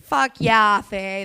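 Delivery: hammed-up Canadian accent. Cheering a friend on, hammed-up Canadian accent. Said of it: "That was so Canadian".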